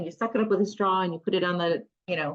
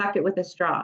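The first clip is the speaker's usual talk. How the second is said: normal talking voice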